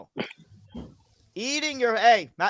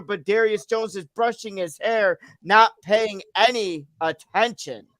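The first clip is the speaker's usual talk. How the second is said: steady match commentary in full sentences; wrestling play-by-play; 2 semitones lower than usual. Acted. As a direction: call the wrestling action like a ringside announcer. Calls an imaginary wrestling match.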